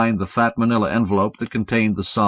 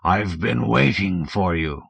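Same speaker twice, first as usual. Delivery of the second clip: thick drawl; slower than usual. Acted. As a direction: drawl it slowly. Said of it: "repeated the thick drawl".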